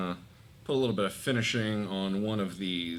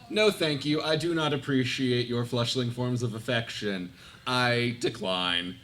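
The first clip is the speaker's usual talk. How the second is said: lightly voiced, prim refusal in character; haughty refusal in character; 2 semitones higher, 3 dB louder than usual. Player's character rebuffs an octopus's embrace, mild haughty refusal. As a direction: refuse with formal distaste, slowing at the end.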